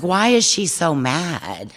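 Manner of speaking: put-on retelling her childhood thought about kittens with a laugh; innocent child. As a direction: play the puzzled little girl. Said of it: "And I would think".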